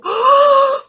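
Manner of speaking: a loud high breathy gust of wind; whooshing wind sound. Shown as a demonstration. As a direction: blow like the wind for the kids. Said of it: "바람이 막 불어오고". (아이에게 바람 소리 흉내)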